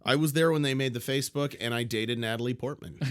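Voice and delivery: playfully boasting about being there; mock boast. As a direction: brag with mock pride. Playing along with a boast.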